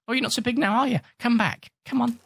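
high mocking jeer; gloating taunt. Real, not acted. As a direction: gloat over the beaten shark. Taunting a shark in game.

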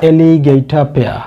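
alligator pear said very slowly and clearly; slow teaching pronunciation. Shown as a demonstration. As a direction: spell out alligator pear syllable by syllable. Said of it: "teaching English word, slow". (ধীরে ধীরে স্পষ্ট উচ্চারণ)

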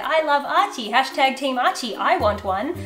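gushing high, excited would-be owner; mock the starry-eyed fan who wants Archie; naive new bird fan. Mocking a gushing viewer who wants a parrot. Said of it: "you go".

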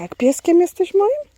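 cooing to dog. Real, not acted. Owner coos at her little dog, high doting voice.

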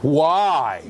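a loud, punched "Why?"; emphatic scream. Shown as a demonstration. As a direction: shout the question to wake the class. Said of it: "When I scream, it means it's important".

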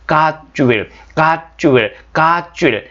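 "God will" merged, like "gat-chu-will"; words run together. Shown as a demonstration. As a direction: repeat "God will" as one linked word. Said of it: "이렇게 합쳐서 발음하시는 게".

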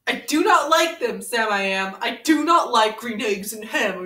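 sing-song read-aloud to a friend; storybook reading. Acted. Reading Green Eggs and Ham to Ren, storybook lilt. Reads Dr. Seuss book aloud.

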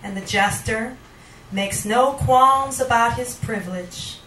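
poetry reading. Acted. Poet reading to the audience, measured spoken word. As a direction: let each image land, unhurried. Poet reads own poem aloud.

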